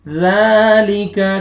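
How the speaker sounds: ज़ालिका slow, ज़ softly as th; soft dhal. Shown as a demonstration. Teacher showing a soft zaal. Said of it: "ज़ाल को नरमी से अदा करना है".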